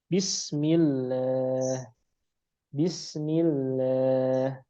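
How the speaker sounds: Bismillah slow, lam thin and light; model reading of Bismillah. Shown as a demonstration. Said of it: "Lamnya tipis".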